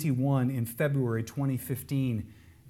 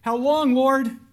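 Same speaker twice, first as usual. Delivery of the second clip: much higher, loud desperate plea; impassioned lament; 12 semitones higher, 10 dB louder, slower than usual. Acted. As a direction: wail it up to God in anguish. Voicing the lament to God.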